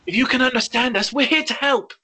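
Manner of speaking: hushed urgent call to the animals; stage whisper shout. Acted. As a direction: call out under your breath. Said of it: "Whisper shout".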